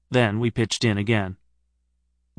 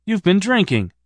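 much higher appalled statement; horrified realisation; 8 semitones higher than usual. Acted. Narrator appalled at Stephen, higher. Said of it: "I was appalled".

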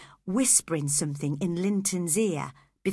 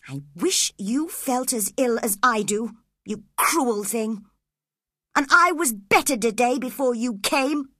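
self-pitying; 4 semitones higher, 4 dB louder than usual. Acted. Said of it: "His voice was full of pity for himself".

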